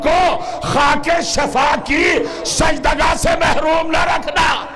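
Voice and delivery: full-force sermon, pressing on phrase after phrase; ringing, insistent religious oratory; impassioned preaching. Real, not acted. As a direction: preach it out to a big congregation, building to a climax.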